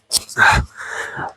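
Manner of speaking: soft whispered sigh to settle in; breathy mock sigh. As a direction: exhale like an ASMR host. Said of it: "she's sitting there going like".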